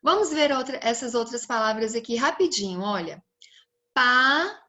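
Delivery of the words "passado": Passado split into Pa - ssa - do; syllable by syllable. Shown as a demonstration. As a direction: hold each piece of Passado, pausing between. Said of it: "quando eu for separar".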